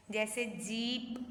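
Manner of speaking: जीप with a slow, drawn-out ee; teacher modelling long ee in जीप. Shown as a demonstration. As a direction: stretch the ee in जीप. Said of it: "ई को जो है वो लंबा पढ़ रहे हैं".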